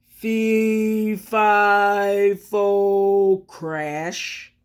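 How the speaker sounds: lightly voiced giant chant cut off by a crash; falling giant. Giant tumbling from the beanstalk, chant cut off. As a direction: fade out as he falls.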